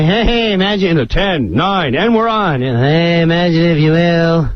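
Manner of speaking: casual, throwaway read; offhand run-through; half-hearted rehearsal. Retold or imitated. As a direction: imitate an actor coasting through rehearsal. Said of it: "you don't sound like Rod Serling".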